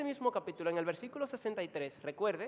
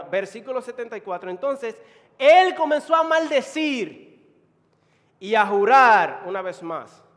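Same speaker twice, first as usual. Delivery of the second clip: loud, emphatic sermon delivery; raised preacher dramatizing the story; preaching at full force; 4 semitones higher, 13 dB louder than usual. Real, not acted. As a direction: build to a high, forceful climax.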